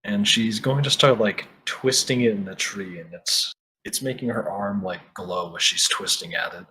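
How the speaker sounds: lightly dramatic scene narration; game master narration. Acted. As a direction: set the scene for the players.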